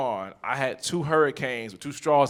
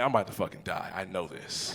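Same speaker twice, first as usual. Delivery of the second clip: weak, dying mutter; 7 semitones lower, 7 dB quieter than usual. Retold or imitated. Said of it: "And I'm like".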